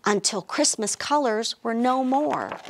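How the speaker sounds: lively storybook narration; animated picture-book reading; reading to children. A narrator's reading. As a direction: read it like storytime for little kids.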